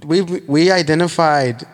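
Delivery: a bad Canadian impression on request; joking Canadian accent that sounds Irish; mock Canadian accent. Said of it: "I can do my Canadian".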